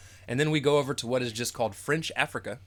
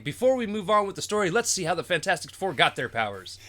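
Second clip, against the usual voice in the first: old cartoon narrator; 4 semitones higher than usual. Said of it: "I'm reading it in old school cartoon narrating".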